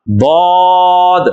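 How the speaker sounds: ضاد drawn out very slowly, thick; ضاد held long, with a thick sound; heavy zwaad. Shown as a demonstration. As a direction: model ضاد with a full heavy sound, stretched. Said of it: "زبان کی جو side ہے".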